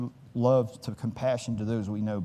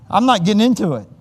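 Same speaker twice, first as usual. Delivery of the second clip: louder, higher, laughing through it; 7 semitones higher, 10 dB louder than usual. Real, not acted. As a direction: laugh it off and move on. Laughing aside.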